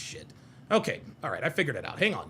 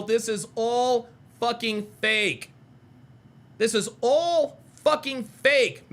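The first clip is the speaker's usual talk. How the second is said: slow, disgusted and emphatic; drawn-out disbelief at the phone call; disgusted rant; 3 semitones higher, much slower than usual. Real, not acted. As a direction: spell out that it's all fake, slowly. Ranting at a fake phone call.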